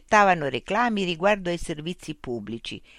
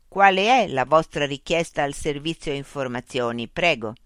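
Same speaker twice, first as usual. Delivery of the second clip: machine voice; 4 dB louder than usual. Acted. Loudspeaker robot voice addressing Mitch. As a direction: speak as a polite, mechanical information unit.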